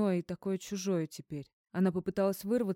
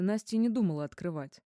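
ordinary delivery

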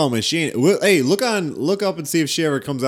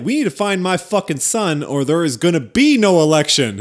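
alligator queen; 6 semitones higher, 6 dB louder than usual. Retold or imitated. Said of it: "she's like".

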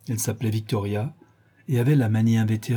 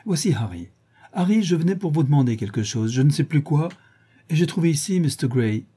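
a hint of a chattering society lady, pitched up; Lady Henry voiced; 3 semitones higher than usual.

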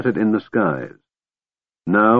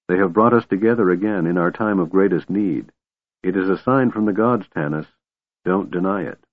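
gentle. Acted. Goldmoon to Tanis, gently reassuring. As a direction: ease him with a gentle word. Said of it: "Goldmoon said gently".

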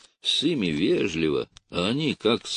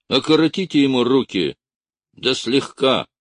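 curt command, pitched up and loud; sharp order; 5 semitones higher, 4 dB louder than usual. A narrator's reading. Captain ordering gendarmes to restrain the prisoner, curtly. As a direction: snap the order out. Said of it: "сказал он резко".

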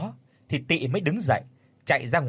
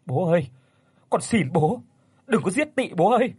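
desperate begging; 5 semitones higher than usual. A narrator's reading. Son begs his father to spare Tị, desperate plea. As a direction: cry out to your father for mercy.

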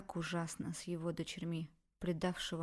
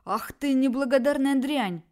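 louder, higher furious roar; 6 semitones higher, 10 dB louder than usual. Acted. Father roars at his ungrateful daughter, furious. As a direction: bellow it at her. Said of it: "ревел Николай Алексеевич".

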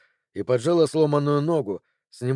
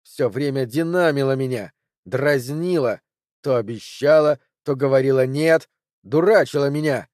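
raging accusation. Acted. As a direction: spit out every grievance. Ted raging at Cori.

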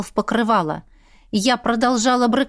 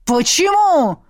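roared why; 6 semitones higher, 4 dB louder, slower than usual. Acted. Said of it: "взревел он".

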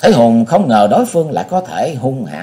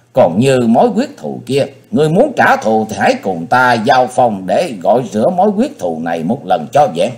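hissing chilling voice; 4 semitones higher than usual. Acted. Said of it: "rít lên giọng lạnh hồn".

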